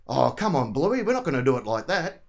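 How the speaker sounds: lightly Ocker Aussie dad voice; a hint of broad Australian country dad; relaxed Aussie dad accent, lightly done. Shown as a demonstration. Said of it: "a bit of an Ocker voice".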